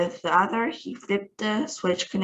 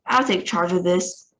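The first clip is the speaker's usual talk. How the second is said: deep raspy voice. Acted. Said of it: "said a deep, raspy voice".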